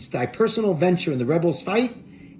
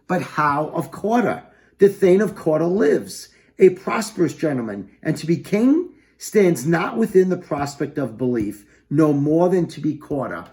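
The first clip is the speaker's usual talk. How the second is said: Macbeth declaiming; 4 dB louder than usual. Acted. Teacher voices Macbeth's doubt, louder.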